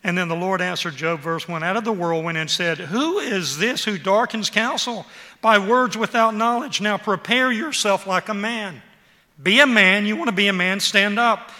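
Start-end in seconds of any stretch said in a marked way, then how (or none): 2.8-8.8 loud and slow, a commanding God; booming voice of God. Acted. Preacher voicing God from whirlwind. 9.4-11.5 loud, forceful command; shouted challenge. Acted. Preacher challenging Job as God.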